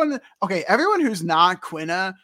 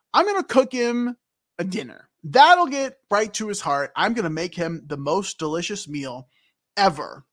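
little Aiko voice; 3 dB louder than usual. Acted. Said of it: "just realizing the voice I'm doing here".

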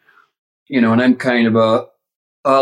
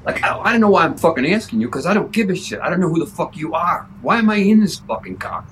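fast, higher, rude rant; stoned rude actor; 5 semitones higher, faster than usual. Retold or imitated. Walken ranting at the kid driver, lightly voiced. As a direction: sneer at the kid, rattling it off. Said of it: "It's like".

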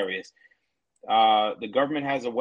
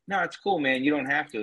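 mock casual feds; 3 semitones higher than usual. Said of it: "even when the feds say".

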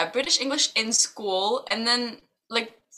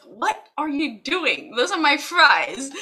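hammed-up shocked objection; mock indignation; 4 semitones higher than usual. Imitating husband's shocked protest.

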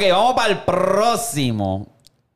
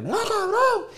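retold yell. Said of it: "le grité".

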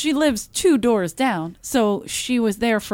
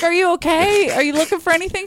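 high, sing-song imitation of herself; high mock-polite quote; mock concerned high voice; 9 semitones higher than usual. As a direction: retell it in a high, falsely sweet voice. Retold quote to neighbor.

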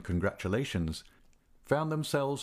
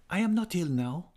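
sudden higher-pitched insistence; unexpected energy; 9 semitones higher than usual. A narrator's reading. Singer interrupting the doctor, suddenly energetic. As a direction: burst in with lightly acted energy. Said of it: "with strange and unexpected energy".

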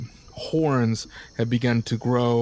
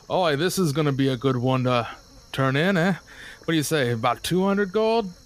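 a light, higher mercenary voice, gloating; laughing mercenary; 4 semitones higher than usual. Acted. DM voicing mercenary gloating over the kill. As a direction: pitch up into a greedy sellsword.

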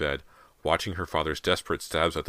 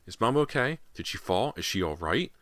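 frightened; 5 semitones higher than usual. Acted. Girls' frightened questions.

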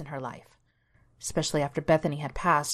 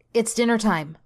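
sighed out, louder and higher; dramatic sigh; 5 semitones higher, 5 dB louder than usual. A narrator's reading. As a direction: heave it out with a sigh. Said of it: "Donnie sighed loudly".

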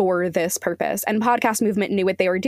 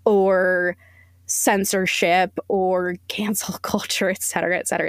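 mocking whisper; 3 semitones lower than usual. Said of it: "saying that the apology was".

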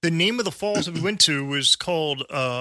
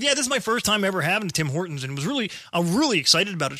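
put-on Canadian accent; 2 semitones higher, faster than usual. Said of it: "with a Canadian accent the entire time".

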